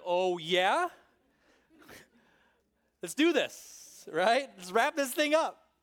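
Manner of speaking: loud, cocky fighting talk; hammed-up tough-guy challenge; mock bravado. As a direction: square up like a wrestler taking a dare. Imagines fighting back at mockers.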